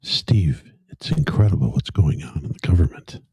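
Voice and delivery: whispered name, then mildly menacing; lightly put-on menace, starting in a whisper; mock menacing. Co-host answering host on shutdown, mock menacing. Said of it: "Am I sounding menacing?".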